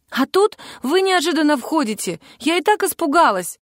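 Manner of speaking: капризно, выше; capricious. A narrator's reading. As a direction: cut in, sulky and spoiled. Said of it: "капризно встряла Вероника".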